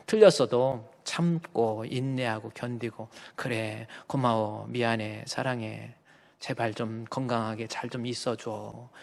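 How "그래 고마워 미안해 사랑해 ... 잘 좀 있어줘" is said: soft. Pretend. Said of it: "이러는 사람이 돼".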